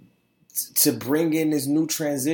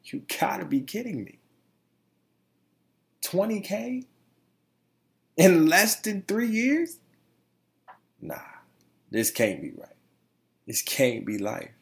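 higher, rising on Twenty K in amazement; stunned, overjoyed disbelief; 4 semitones higher than usual. Retold or imitated. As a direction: ask it like you can't believe the number. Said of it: "I'm like".

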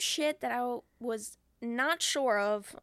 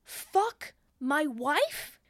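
slow, much louder and higher mock yell; retold yell; 12 semitones higher, 11 dB louder, slower than usual. Man yelling at his mirror, mock furious yell. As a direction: scream it at the mirror. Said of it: "And he's yelling".

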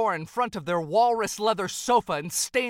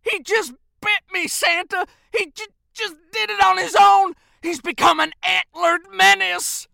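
high, wailing shout; distraught elf protesting loudly at a high pitch; tearful elf; 10 semitones higher, 8 dB louder than usual. Acted. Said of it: "tears rolled down his cheeks".

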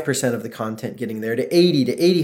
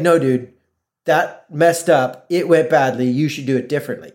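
blunt, emphatic telling-off, each point set apart; 3 dB louder than usual. Acted. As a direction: spell it out directly so it can't be missed. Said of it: "if you don't say it really".

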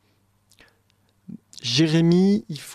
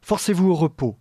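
measured, lower theatrical poem reading; poem recitation; 3 semitones lower than usual. Acted. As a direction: recite it like a stage role. Reads the poetic dialogue aloud.

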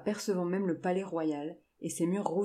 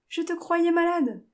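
high, loud, drawn-out outcry; astonished exclamation; 12 semitones higher, 8 dB louder than usual. A narrator's reading. Jane runs to her grandfather she thought ill, astonished cry. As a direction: exclaim in disbelief, voice leaping up, slowly.

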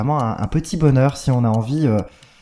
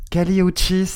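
Spanish accent; 5 semitones higher than usual. Shown as a demonstration. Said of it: "je fais mon accent tout, tout le long".

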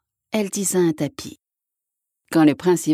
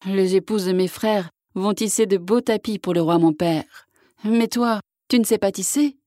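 sighing; 3 semitones higher than usual. Acted. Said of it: "dit Ivan en soupirant".

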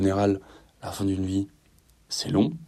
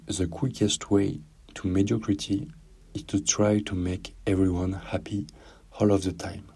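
English accent. Shown as a demonstration. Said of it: "que je vais te lire en anglais et en français".

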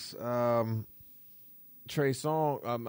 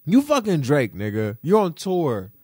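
incredulous call-out; 4 dB louder than usual. Retold or imitated. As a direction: hype him up, almost shouting. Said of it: "I'm like".

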